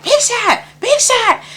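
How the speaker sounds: high-pitched call across the house. Retold or imitated. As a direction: call someone from the back room. Mother calling out to father.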